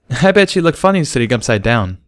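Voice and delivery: lightly voiced Derpy; smiling. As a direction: grin as you say it. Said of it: "smiling broadly".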